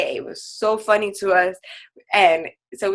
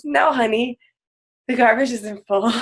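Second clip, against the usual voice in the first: laughing through quote; 4 semitones higher than usual. Retold or imitated. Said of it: "and she goes".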